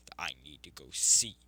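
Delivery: halting, tearful plea with long pauses; understated crying beast, pleading to get out; acted sobbing plea. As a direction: beg brokenly, swelling then fading on the last word. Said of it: "As Kurama begins sobbing even more".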